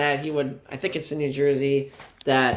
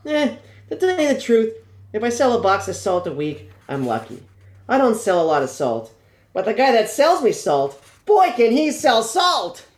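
put-on old grocer; 5 semitones higher than usual.

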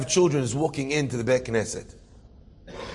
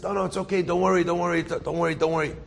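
retold subdued "don't worry"; hasty reassurance; 3 semitones higher, faster than usual. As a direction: wave away an apology while hurting. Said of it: "He feels terrible".

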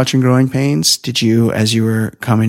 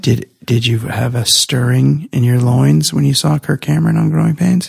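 creepy voice; 2 semitones higher than usual. Pretend. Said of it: "I don't like this creepy voice you're doing".

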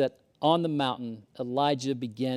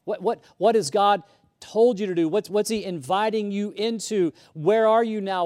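pressing challenge; 5 semitones higher, 5 dB louder than usual. Acted. Preaching challenge.

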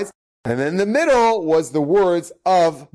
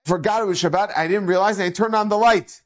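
put-on tearful child; 6 semitones higher than usual. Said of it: "the boy was in tears".

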